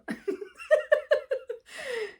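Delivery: high long laugh; high real laugh. Real, not acted. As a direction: laugh it off warmly. Laughing at filming yourself.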